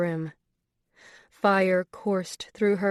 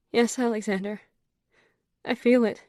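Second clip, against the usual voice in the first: passionate; 3 semitones higher than usual. A narrator's reading. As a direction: let it climb with passion. Woman answering in passion.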